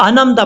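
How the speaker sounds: 'انعمتا' run together as anamta; dropped ain. Shown as a demonstration. Teacher explains the mistake, mistaken recitation. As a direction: say 'انعمتا' smoothly with no ع. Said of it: "یہ عین".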